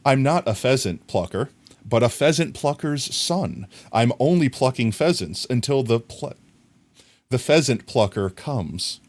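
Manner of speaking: careful, measured recital; careful tongue twister. Shown as a demonstration. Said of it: "let me try to say it without messing it up".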